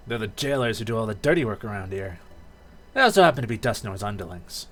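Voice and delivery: lightly voiced stern game character; cool explainer. Grovyle naming Dusknoir's underlings to fellow captives, cool.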